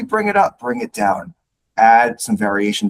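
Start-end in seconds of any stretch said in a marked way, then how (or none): 0.0-0.6 bring it up. Shown as a demonstration. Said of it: "Add a little bit of variation to your tonality". 0.6-1.3 low, dropping pitch on "down"; bring it down. Shown as a demonstration. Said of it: "Add a little bit of variation to your tonality".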